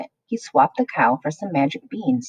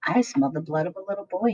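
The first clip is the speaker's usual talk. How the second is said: giant shouting. A narrator's reading. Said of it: "he shouted".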